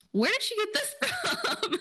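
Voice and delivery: high-pitched disbelief breaking into laughter; laughing, stretched-out high disbelief; incredulous laughing. Retold or imitated. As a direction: squeal the question through a laugh. Incredulous reaction to the calls.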